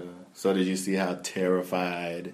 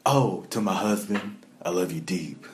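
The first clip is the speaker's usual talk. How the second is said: dropping voice deep. Retold or imitated. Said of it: "make her voice sound so deep".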